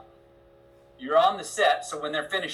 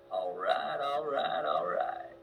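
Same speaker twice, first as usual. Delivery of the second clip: first three words on screen; 3 dB quieter, much slower than usual. Retold or imitated. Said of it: "And in my head".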